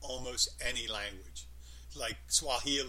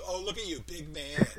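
mocking; 4 semitones higher, 4 dB louder than usual. Shown as a demonstration. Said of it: "Depending on the emphasis".

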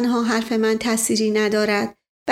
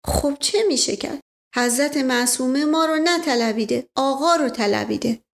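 put-on isfahani accent; 3 semitones higher than usual. Mash Ghasem continues.

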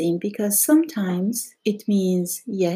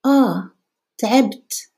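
casual Arabic aside; 4 semitones higher, 4 dB louder than usual. Shown as a demonstration.

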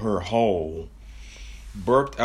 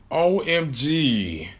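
slow drawn-out O M G, higher; shocked gasp; 4 semitones higher, much slower than usual. Acted. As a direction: spell it out in shock. Sees roasted Whitney.

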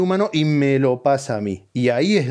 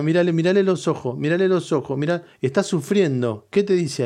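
a touch higher, pleading mock wife; imitating wife; 4 semitones higher than usual. Wife begging him to look at the suffering dog, mock pleading. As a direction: mimic the wife fussing over the dog, lightly higher. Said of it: "ella le pone la voz".

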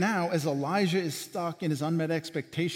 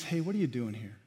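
softer, near, caring question; gentle and close; 2 semitones lower, 3 dB quieter, faster than usual. Pretend. God sitting with Elijah in the cave, gently. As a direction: ask it quietly, right beside him. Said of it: "You know what the picture is?".

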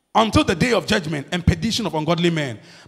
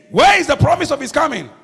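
mocking scoffer; 5 semitones higher, 5 dB louder than usual. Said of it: "and saying".

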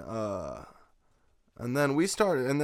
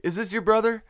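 high, louder mock Mexican accent; attempted Mexican accent; 10 semitones higher, 5 dB louder than usual. Mexican guy checking with the searcher, badly imitated Mexican accent. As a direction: have another rough go at a Mexican accent, pitched high. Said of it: "I can't do a Mexican accent".

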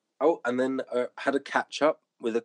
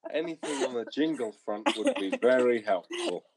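laughing. Real, not acted. Mocking repeat while laughing.

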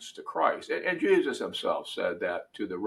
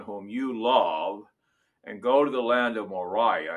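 measured, solemn reading of Scripture; dramatic Bible reading from the pulpit; 2 semitones higher than usual. Acted. Reads Genesis 22 aloud.

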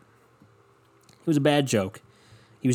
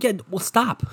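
higher, laughing "yeah, well, stop"; laughing retort; 5 semitones higher than usual. Retold or imitated. Answering the uncle's confession, laughing mock dismissal. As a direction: laugh through a curt brush-off. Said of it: "It's like".

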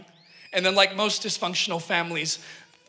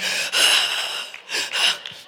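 deep sigh. Retold or imitated. Overwhelmed reaction again.

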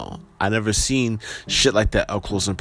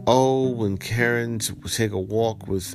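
steady, even article reading; news article read-aloud. Acted. Vlogger reading viewers a viral Central Park story, news read-aloud. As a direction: read out the report evenly.

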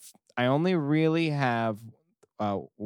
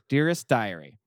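lightly voiced whiny God diary; a hint of a petty God writing his diary; reading as God; 2 semitones higher than usual. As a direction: read it as a self-pitying deity, lightly acted. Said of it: "God says".

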